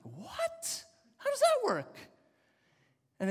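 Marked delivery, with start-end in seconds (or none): 0.0-2.0 stunned disbelief. Retold or imitated. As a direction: voice leaping way up on "how does that work". Pastor retells hearing she's ready.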